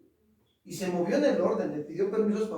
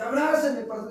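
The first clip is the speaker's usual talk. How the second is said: higher, louder begging for a hug; imitating a crying youth pleading; retold tearful plea; 5 semitones higher, 5 dB louder than usual. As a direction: ask for a hug like a weeping young man. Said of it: "y llora, y llora".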